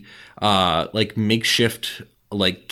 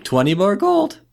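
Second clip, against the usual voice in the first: goblin voice; 10 semitones higher, 3 dB louder than usual. Acted. Goblin gatekeeper.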